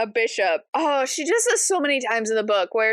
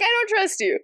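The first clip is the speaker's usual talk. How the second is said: laughing mock distrust; 8 semitones higher than usual. Alice voiced, laugh heard.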